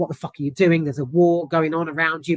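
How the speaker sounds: ordinary delivery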